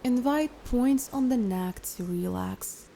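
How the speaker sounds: calm, unhurried guided meditation voice. Acted. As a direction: guide a listener into relaxation, leaving long pauses.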